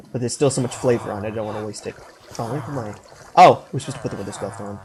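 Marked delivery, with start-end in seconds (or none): 0.1-1.9 talking while chewing gum; words round a wad of gum. Real, not acted. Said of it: "I have gum in my mouth".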